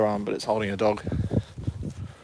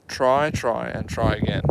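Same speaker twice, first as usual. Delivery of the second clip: inspirational voice. Shown as a demonstration. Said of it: "say it in an inspirational voice".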